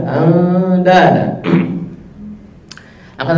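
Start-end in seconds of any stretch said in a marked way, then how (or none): 0.0-1.2 "Anda ada" slow, light and thin; thin tarqiq reading. Shown as a demonstration. Teacher shows "Anda ada" with tarqiq. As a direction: keep "Anda ada" light, nasal held. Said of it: "Tarqiq juga".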